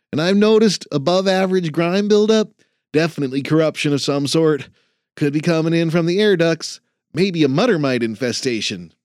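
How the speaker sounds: lightly voiced eager student; earnest young trainee. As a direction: report in like a keen rookie. Jason reporting eagerly.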